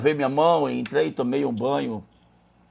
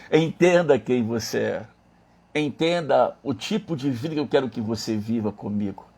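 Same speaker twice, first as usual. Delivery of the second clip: solemn; 3 semitones lower than usual. Retold or imitated. Quotes God's solemn message.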